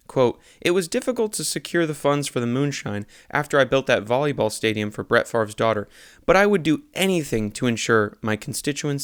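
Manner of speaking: deadpan newspaper read-aloud; earnest local news delivery; news article read. Acted. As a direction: read it straight like a news report. Reads satirical news article.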